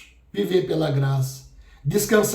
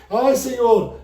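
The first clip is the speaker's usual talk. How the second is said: mock believer's vow; 7 semitones higher than usual. Pastor mocking the wrong reading of the verse, in a high pleading voice. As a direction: mimic a believer getting the verse backwards. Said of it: "Não diz isso".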